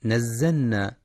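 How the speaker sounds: نزلنا with the l merged into n, marked wrong; faulty merged نزلنا; wrong assimilation. Shown as a demonstration. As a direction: show the mistake نزلنا as nazzanna. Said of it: "فلا يقرأ نزلنا".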